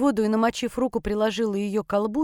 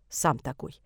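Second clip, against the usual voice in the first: sniffing; 7 semitones lower, 4 dB quieter, slower than usual. A narrator's reading. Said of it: "Просопела я".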